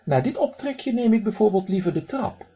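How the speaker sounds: duck mimics his uncle, high and posh. Duck imitates his pompous uncle to the man, posh. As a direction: put on snooty airs. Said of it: "zegt hij dan heel bekakt".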